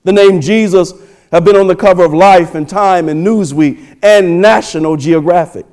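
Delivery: loud, emphatic pulpit delivery; forceful preaching. Acted. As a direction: punch out the key words to the congregation.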